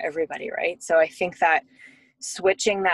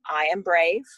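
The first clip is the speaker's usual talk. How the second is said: louder, lightly imitated little kid; a hint of an insistent preschooler; lightly voiced preschooler; 4 dB louder than usual. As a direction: imitate a child firmly prompting mom. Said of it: "he's like".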